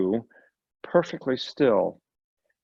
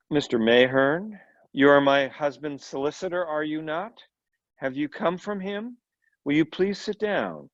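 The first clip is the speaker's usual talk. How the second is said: Marlene Dietrich voice; 3 semitones higher than usual. Acted. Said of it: "think Marlene Dietrich".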